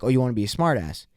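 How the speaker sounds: quick, lightly voiced retort; mildly challenging cop. Cop answering chess-playing driver, mildly challenging. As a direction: imitate a cop's understated challenge, at talking volume. Cop's first retort, milder take.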